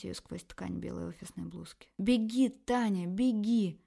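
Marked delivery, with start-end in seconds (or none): 2.0-3.8 loud urgent cry to run; frantic yell. Acted. Inner voices yelling at Tanya to run, frantic shout. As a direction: scream at yourself to flee. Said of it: "вопили здравомыслящие девочки".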